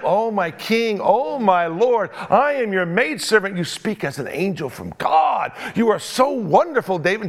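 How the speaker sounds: a hint of gushing flattery; lightly mock fawning; over-the-top flattery. Preacher mimicking the widow fawning over King David, lightly. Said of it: "the flattery was just over the top".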